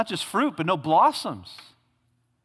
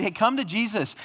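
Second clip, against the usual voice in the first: breezy, higher sales-pitch invitation; mock salesman preacher; 5 semitones higher than usual. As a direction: parody a feel-good preacher selling Jesus. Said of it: "Don't you hear people talk like that?".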